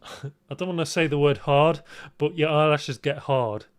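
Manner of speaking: laughing embarrassed. Real, not acted.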